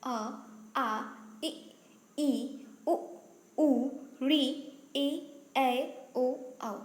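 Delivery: each vowel said separately, short pauses between; reciting vowels. Shown as a demonstration. Teacher showing students how vowels are read, measured recitation. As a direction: recite the vowel letters one by one, distinctly. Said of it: "अब हम क्या पढ़ेंगे".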